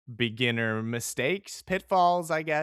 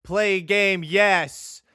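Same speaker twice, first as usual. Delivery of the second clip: excited; 7 semitones higher, 8 dB louder, much slower than usual. Real, not acted. Repeating his own catchphrase.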